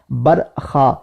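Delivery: برکھا said "barkha" with a kh sound, "برخا"; wrong pronunciation. Shown as a demonstration. Teacher imitating people's misreading, wrong pronunciation. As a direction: say "برخا" with a rough kh. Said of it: "کھا کو وہ خا کا تلفظ".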